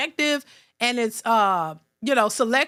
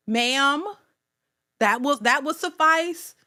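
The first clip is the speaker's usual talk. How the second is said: prim correction; slower than usual. Pretend. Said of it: "I would like to be addressed as".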